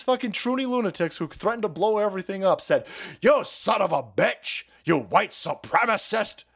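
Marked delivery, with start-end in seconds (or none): 3.2-6.4 slow, drawn-out imitated insult; mock outrage. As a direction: stretch the insults in hammed-up indignation. Voices outraged activists' insult.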